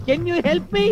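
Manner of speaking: high, drawn-out plea; pleading for help. Acted. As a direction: plead in a high voice, stretching the end. Stuck, pleads again for help. (హెచ్చు స్వరంలో బతిమాలుతూ)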